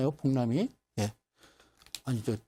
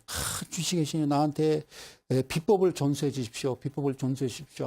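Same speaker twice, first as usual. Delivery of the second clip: mock pleading prayer; acted supplication to a deity; praying. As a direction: repeat the plea in a level, droning chant. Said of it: "계속 기도를 올립니다".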